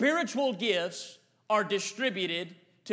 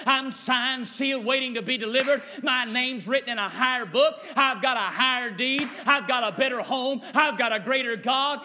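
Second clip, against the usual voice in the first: bold declaration. Acted. Declaration against devil, building.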